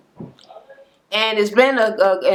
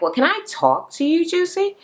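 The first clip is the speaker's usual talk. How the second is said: tentative request; 10 semitones higher than usual. Retold or imitated. Minnie asking tentatively.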